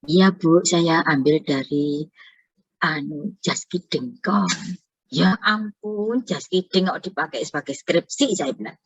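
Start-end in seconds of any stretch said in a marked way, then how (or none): 0.1-4.5 slow, halting imitation of a student; hesitant student confession. Student admits dubious source to lecturer, hesitant. 5.1-8.4 retold dismay. Lecturer reacts to website used in thesis, dismayed.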